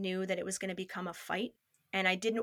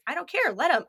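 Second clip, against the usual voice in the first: high, emphatic brush-off; dismissive, raised-pitch comeback; defiant retort; 7 semitones higher, 5 dB louder, faster than usual. Retold or imitated. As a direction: retell snapping back in a quarrel. Retold defiant retort in quarrel.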